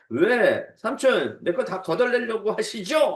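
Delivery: mock protest to an uncle; indignant protest. Jacob arguing with his uncle over lost property, imitated indignant protest. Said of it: "하면서 막 따졌을 거예요".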